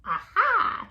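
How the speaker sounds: high, loud aha; excited shout. Acted. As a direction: jump on the idea. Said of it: "she shouted with a jump".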